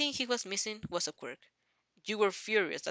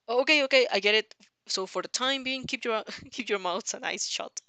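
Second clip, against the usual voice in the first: shouting over wind; 3 semitones higher, 7 dB louder than usual. A narrator's reading.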